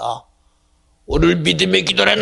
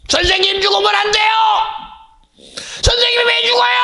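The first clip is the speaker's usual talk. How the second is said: anguished protest. Acted. Disciple begging his teacher not to die, crying shout. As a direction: cry out in desperate protest.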